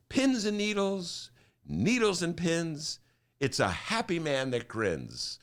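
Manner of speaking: slow, sing-song mantra; a hint of Jackie Gleason chanting. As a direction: recite it slowly to calm yourself. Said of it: "this little mantra he would say".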